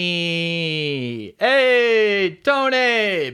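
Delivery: loud high call across a room. Pretend. Podcast host calling out to Tony, loud high call. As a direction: shout his name like hailing him.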